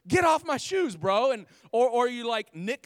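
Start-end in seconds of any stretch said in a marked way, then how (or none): 0.1-1.3 loud, high, outraged "get off my shoes"; mock angry yell. Preacher acting out a stranger stepping on his shoes, loud and outraged. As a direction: yell it like someone scuffed your new kicks. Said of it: "you're just".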